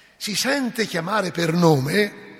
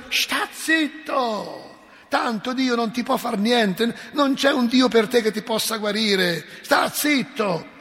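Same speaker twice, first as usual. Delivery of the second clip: crowd scolding; 5 semitones higher, slower than usual. Retold or imitated.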